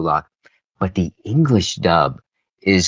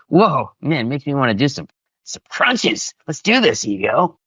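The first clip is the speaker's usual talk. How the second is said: lightly voiced higher-pitched gym fan; mock psyching up for crunches; playful imitation of an eager listener; imitating a pumped fan; 5 semitones higher than usual. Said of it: "where you can hear something like".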